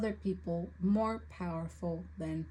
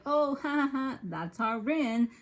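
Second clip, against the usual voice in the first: imitating amused author; 5 semitones higher than usual. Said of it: "and was like".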